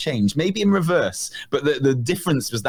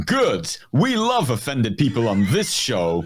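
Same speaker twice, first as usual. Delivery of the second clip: slow, savoring take with stress on love; mock relish; slower than usual. Shown as a demonstration. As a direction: relish it as if offense is a treat. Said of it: "or should I say".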